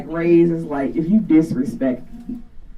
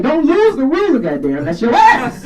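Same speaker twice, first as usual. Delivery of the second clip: mock strict dad; 8 semitones higher, 4 dB louder than usual. Strict dad voiced in story.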